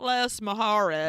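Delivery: slow, clumsy attempt at Spanish; horrible Spanish accent. Repeating Mustache's answer, horrible Spanish accent. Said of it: "Again, in a horrible accent".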